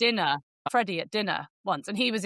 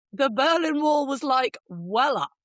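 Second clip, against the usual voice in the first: posh guy; 5 semitones higher, 4 dB louder, slower than usual. Retold or imitated. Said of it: "the guy is very posh".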